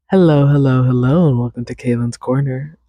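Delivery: bright host welcome; podcast intro. Acted. Host opening the podcast, bright welcome. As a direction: greet listeners like a show host.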